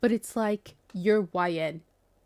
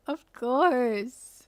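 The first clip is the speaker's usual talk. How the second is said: giddy swoon; 4 semitones higher, 4 dB louder than usual. Pretend. Acting swooning reader reply.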